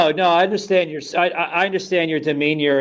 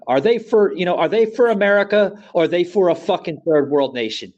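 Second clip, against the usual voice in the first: indignant; 3 semitones higher, 4 dB louder than usual. Real, not acted. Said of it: "I'm gonna show my anger".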